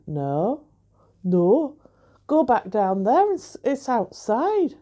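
put-on half-hearted northeastern English accent as the barman; a light northeastern twang on the barman's words; barely-there Geordie barman imitation. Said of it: "trying to do a northeastern accent".

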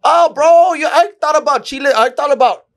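mock horror, voice leaping up; shocked realisation. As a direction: act floored by the misunderstanding. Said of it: "And I was like".

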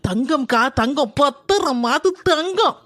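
daughter-in-law staging loud praise for the eavesdropping mother-in-law; praise for eavesdropper. Acted. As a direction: say it loud so the one behind the door hears. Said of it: "ஒட்டு கேக்கா போல இருக்கு".

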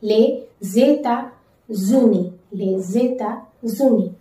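Les États-Unis slowly with the z linked, lay-zay-ta-zoo-nee; slow liaison model for learners; liaison stressed. Shown as a demonstration. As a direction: join Les and États with a z sound. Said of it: "focus on, like, connecting the vowel and the consonant sound".

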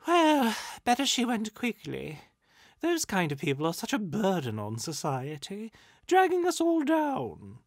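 high, loud, theatrical spirit; callous ghost. A narrator's reading. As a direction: swoop up loudly in haughty dismissal. Ghost voiced, callous jibe.

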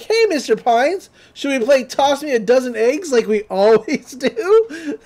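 high, friendly shop clerk call; cheery employee. Retold or imitated. Store employee greeting Mister Pines, high and friendly. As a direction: greet him like a regular. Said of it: "employees is like".

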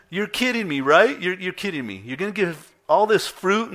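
incredulous. Retold or imitated. Retold incredulous reaction to wife.

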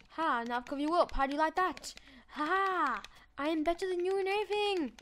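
hammed-up triumphant taunt at a block; gloating taunt. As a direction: lord it over the mob, cocky and quick. Taunting a mob in game.

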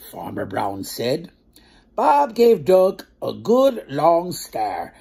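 slow, clear storybook narration; reading to children. A narrator's reading. Storyteller narrating the farm tale to children. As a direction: read it out slowly for little ones. Reads the picture book aloud.

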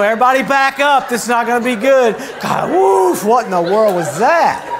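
high, loud alarmed shout; panicked angels shouting. Acted. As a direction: yell like angels fleeing a huge blaze.

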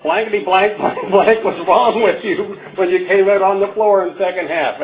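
retold coach's yell. Coach to player on the bus after the game, mock yell. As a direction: imitate a coach chewing out a player, without full volume. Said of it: "at the top of his lungs".

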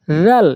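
"রাল" opening with a gentle voiced th; light soft dhal. Shown as a demonstration. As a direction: buzz "রাল" lightly at the tooth tips. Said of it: "একদম হালকা নরম করে".

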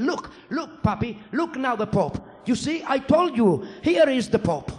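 put-on high, loud, eager toddler voice; a small boy triumphant that he was right; excited child. Son turning his father's head toward the truck, high excited child voice.

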